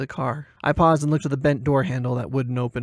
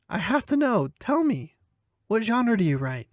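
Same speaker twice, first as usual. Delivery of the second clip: put-on 1 eager young woman; 8 semitones higher than usual. A narrator's reading. Carrie eager.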